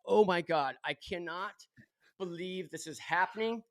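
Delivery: soft, dropping under his breath; quiet mortified aside; mortified mutter. Retold or imitated. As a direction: mutter it to yourself in disbelief. Mortified in car with Tiger.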